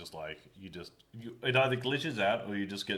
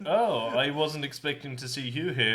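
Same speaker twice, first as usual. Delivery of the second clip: raised, louder mock greeting; mock surprised villain; 5 semitones higher, 5 dB louder than usual. Friend mocking the villain's fake surprise. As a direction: feign surprise at seeing him. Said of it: "I was like".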